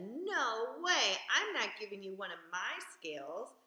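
proud fish refusing; stubborn refusal. Acted. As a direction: refuse flatly and loud. Rainbow Fish refuses to share.

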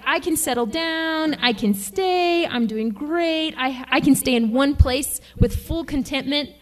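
a lightly acted proud claim; mock self-assured boast. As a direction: puff yourself up, half-joking. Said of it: "You're like".

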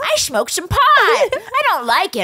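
hammed-up freaked-out whine; panicky whine. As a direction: plead like a scared kid. Panicked ER quote.

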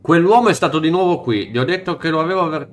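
fast, even reading of on-screen dialogue; quick read-through of game text. Acted. Player reading a shopkeeper's text aloud, fast and even. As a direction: rattle off the character's lines.

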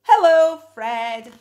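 delighted greeting; joyful hello. Acted. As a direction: greet the lost bear happily. Boy finds his bear.

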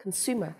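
"Consumer" as "con-SU-mer", falling at the end; brief model of "Consumer", stressed in the middle; middle-syllable stress. Shown as a demonstration. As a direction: say "Consumer" with weight on "su". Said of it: "âm tiết giữa".

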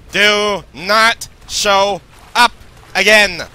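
slow, loud, deliberate warning; stern warning. Real, not acted. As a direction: lay down the law, word by word. Warning the stalking killer.

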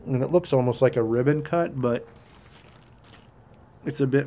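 talking around pipe stem; pipe in mouth. Real, not acted. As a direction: lips clenched on pipe. Seen 0: Pipe stem clenched between lips while talking throughout labelled words.

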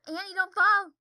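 high, loud mock yell; imitated warning shout. Retelling a funny video moment, imitated warning shout. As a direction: imitate a woman yelling a warning. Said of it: "the way she says it is just funny".

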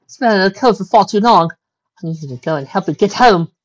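high, urgent pleading; distressed. A narrator's reading. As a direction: plead anxiously for a sick father. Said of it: "Rarity was in distress".

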